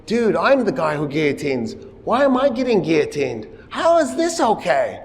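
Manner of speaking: a hint of rising outrage; lightly voiced, baffled protest; indignant Robespierre. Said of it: "what that emotion you're feel".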